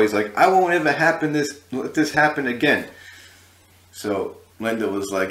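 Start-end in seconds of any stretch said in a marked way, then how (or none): 0.4-2.9 high, loud imitated telling-off; an angry singer. A singer warning his guys about the door, angry. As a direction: lay down the law as the irate boss. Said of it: "he was really angry".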